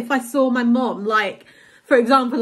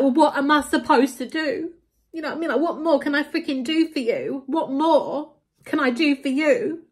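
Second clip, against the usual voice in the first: higher-pitched, helpless exasperation; exasperated; 4 semitones higher than usual. Retold or imitated. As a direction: plead in frustration, voice raised in pitch. Retelling her exasperated reaction to mom.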